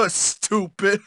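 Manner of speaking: low, soft laughing jeer; dumb mocking chuckle. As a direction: chuckle dimly through the word. Bully chuckles at victim.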